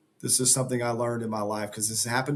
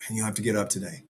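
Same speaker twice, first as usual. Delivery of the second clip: coaxing inner voice; 2 semitones lower, 3 dB quieter than usual. Acted. Inner voice tempting him to skip the morning run, coaxing. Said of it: "And that voice says".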